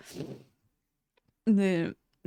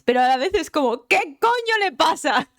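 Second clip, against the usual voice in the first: exasperated outburst; 7 semitones higher, 6 dB louder than usual. Real, not acted. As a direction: stretch out the disbelief at the top of the voice. Vuelve a estallar por Raiden. (incredulidad exagerada, aguda y lenta)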